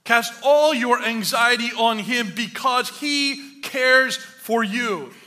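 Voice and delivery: "all" drawn out loud, then slow deliberate phrasing; stress on ALL. Real, not acted. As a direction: preach it slowly, leaning hard on "all". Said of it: "not some".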